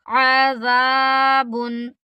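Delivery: slow, आज़ाबुन with a smooth ज़ and no buzz; slow, clear आज़ाबुन; clean ज़ demo. Shown as a demonstration. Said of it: "बिना झरझर की आवाज़".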